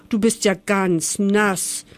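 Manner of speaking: langsam und mitfühlend gesagt; tröste die nasse Maus, langsam. Acted. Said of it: "sagt Herr Zwerg mitfühlend". (Zwerg tröstet die nasse Maus, langsam und mitfühlend)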